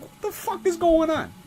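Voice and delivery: high-pitched retold outburst; alarmed disbelief. Reacting as the ground rumbles, alarmed disbelief. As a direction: pitch leaps up in bewildered alarm.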